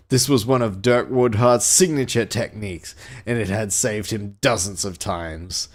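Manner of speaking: dramatic pulp-thriller read-aloud; deliberate storyteller delivery; story narration. A narrator's reading. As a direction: narrate an action novel with relish.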